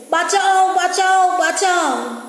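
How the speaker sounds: high, drawn-out cries in verse; recited cry for help. Acted. Widow fleeing three men, stylised cry for help. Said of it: "আর চিৎকার করছে".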